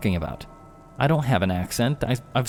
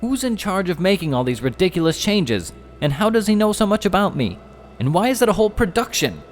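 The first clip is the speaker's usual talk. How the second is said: high, fed-up shout, faster at the end; Jeff shouting; 12 semitones higher than usual. Acted. Jeff fed up with the skeletons, shouting. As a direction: yell out in exasperation. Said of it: "shouted Jeff".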